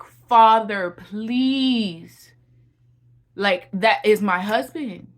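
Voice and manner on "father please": loud, begging call to God; desperate prayer shout; pleading cry. Retold or imitated. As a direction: cry out please to the Father. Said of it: "I was like".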